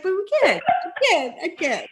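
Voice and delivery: hammed-up Russian accent, breaking into laughs; playing a Russian heroine with a laughing, hammed-up accent; mock Russian accent, laughing. Retelling the heroine's line, mock Russian accent. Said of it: "in a Russian accent".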